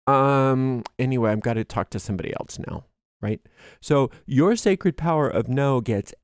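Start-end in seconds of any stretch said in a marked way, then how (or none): 0.1-2.8 a breezy fast brush-off; cheerfully dismissing an authority figure; mock dismissive brush-off. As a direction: hurry past them, unbothered. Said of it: "You're like".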